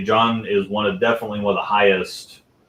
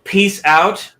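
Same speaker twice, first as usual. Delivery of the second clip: put-on squeaky child voice, very high; high kid voice; 10 semitones higher, 5 dB louder than usual. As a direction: pipe it up like a little kid. Kid voice again.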